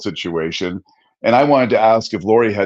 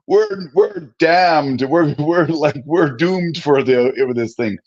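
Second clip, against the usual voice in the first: higher, dragged out doom; slow mock doom; 4 semitones higher, slower than usual. Husband retelling his budget panic, slow hammed-up doom. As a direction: moan it like the end has come. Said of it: "And I'm like".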